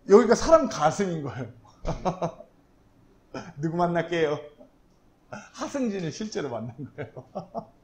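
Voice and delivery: chuckling between phrases; laughing at his own anecdote; amused. Real, not acted. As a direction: tell it through bursts of laughter. Amused telling of airport encounter.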